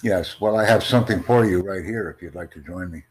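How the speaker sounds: normal talking voice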